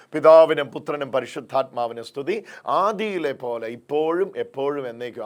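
rolling prayer with stretched key words; public prayer. Real, not acted. Preacher asks the Father's love to protect everyone, public prayer. Leads opening prayer aloud.

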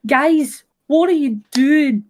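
lightly imitated Irish streamer accent; mock Irish accent. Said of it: "trying to do an impression".

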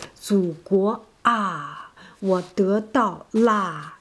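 句末语气词"啊""啦"轻柔拖长; Chinese sentence-final particle. Shown as a demonstration. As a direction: let "祖国啊" and "我得到啦" trail off on their particles. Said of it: "we say".

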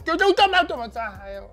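high, fast, loud panicked plea; scared squeal as it crawls. Real, not acted. Millipede crawling near eye.

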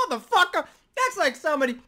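loud, high exclamation; hyped shout. Real, not acted. Reactor hyped by the diss, shouting high and loud. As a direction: yell it out in disbelief.

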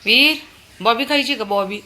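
high, loud coaxing call. Real, not acted. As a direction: lure him over with a treat. Mother calling child to eat.

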